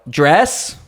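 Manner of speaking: mild mock yell. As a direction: call out an order name, half-yelled. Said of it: "He yells out".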